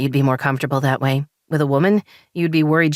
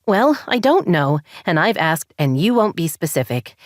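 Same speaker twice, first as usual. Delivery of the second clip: higher, frustrated rising voice; wife venting frustration at husband, higher and heated; 4 semitones higher than usual. Acted. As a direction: let the frustration boil over. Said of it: "frustration bubbling up inside".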